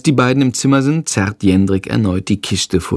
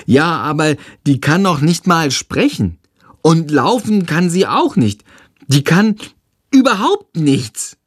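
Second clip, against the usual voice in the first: put-on a small boy unimpressed; little boy, scornful; 6 semitones higher than usual. Tom grumbling to his brother about the new baby, scornful child voice.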